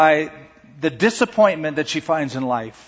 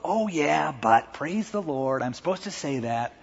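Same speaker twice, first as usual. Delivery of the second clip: softer, dutiful, a touch sheepish; catching ourselves; 6 dB quieter than usual. Retold or imitated. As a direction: recover into pious words. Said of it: "we catch ourselves and we go".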